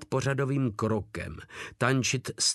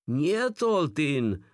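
high-pitched, stubborn denial; acted prisoner holding his ground; stubborn insistence; 6 semitones higher, much slower than usual. A narrator's reading. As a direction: insist obstinately, pitch jumping up. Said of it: "tvrdošíně trval na svém vězeň".

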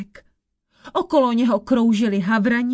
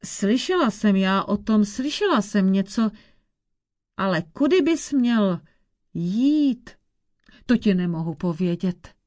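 put-on old witch; 3 semitones lower than usual.

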